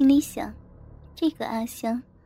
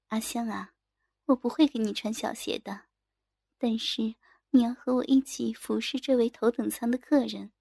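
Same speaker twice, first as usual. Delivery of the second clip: softer, calm reassurance; placating senior colleague; 2 semitones lower, 4 dB quieter than usual. Acted. Senior colleague to frightened junior, softly reassuring. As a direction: soothe her with a quiet, settled voice.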